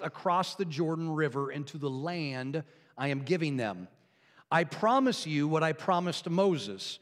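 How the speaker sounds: measured, deliberate Bible reading with pauses; scripture reading. Real, not acted. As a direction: read scripture solemnly to a congregation. Reads scripture aloud to congregation.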